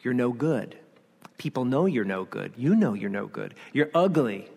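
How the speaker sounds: low, understated accusation; lightly acted discouraging voice; accusing inner voice. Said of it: "is accusing you".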